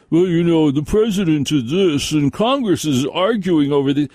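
mock serious politics talk; mock pundit. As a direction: parody the host who ignores the snow. Mocking off-topic radio host.

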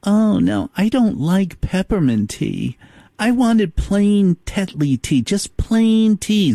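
complaining like a spoiled royal; fussy queen bee. Pretend. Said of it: "And the queen bee goes".

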